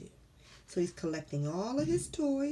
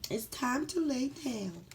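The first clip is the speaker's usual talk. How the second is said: put-on higher, slow kid voice; sleepy little boy; 5 semitones higher than usual. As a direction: settle down for bed like a small boy. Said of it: "he may be saying".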